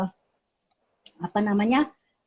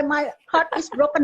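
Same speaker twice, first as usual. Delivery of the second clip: imitating a heartbroken child, pitched up; higher, mock-tearful complaint; retold tearful wail; 5 semitones higher than usual. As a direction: play a hurt kid lightly wailing. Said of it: "oh, sambil nangis gitu".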